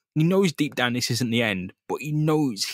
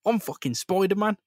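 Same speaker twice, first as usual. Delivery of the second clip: higher, threatening snarl; menacing Spider-Man; 8 semitones higher than usual. Retold or imitated. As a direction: get right in his face. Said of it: "grabs Norman Osborn's face and goes".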